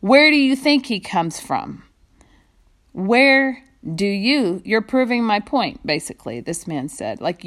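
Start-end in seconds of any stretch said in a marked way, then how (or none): 0.0-5.9 sarcastic. Acted. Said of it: "poignant but sarcastic remark".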